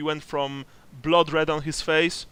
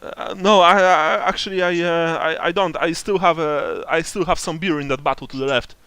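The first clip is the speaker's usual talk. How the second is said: terrified; 2 semitones higher, 6 dB louder than usual. Acted. Frightened NPC answering questions.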